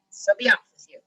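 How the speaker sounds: loud troll dismissal; lightly voiced gruff troll; troll's growl. A narrator's reading. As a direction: send the goat away as a growly troll. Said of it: "growled the troll".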